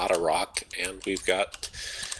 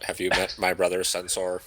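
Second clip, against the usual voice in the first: robot voice. Pretend. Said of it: "I talk like a robot".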